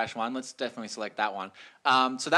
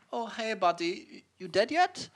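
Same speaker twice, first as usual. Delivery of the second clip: breezy cannibal; 8 semitones higher, slower than usual. Retold or imitated. Cannibal checking on dying victim.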